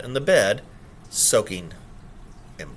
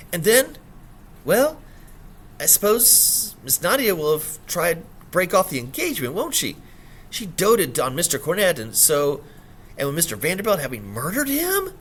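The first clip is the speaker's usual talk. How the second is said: Ada voiced; 5 semitones higher than usual. Ada voiced, explaining eagerly.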